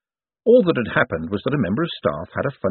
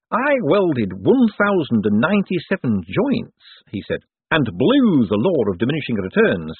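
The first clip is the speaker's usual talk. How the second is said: high-pitched, nervous boffin; socially awkward inventor, proud and stiff; awkward eager economist; 6 semitones higher than usual. Acted. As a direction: announce your achievement slowly and earnestly in a high voice. Voices Hubert, an awkward economist.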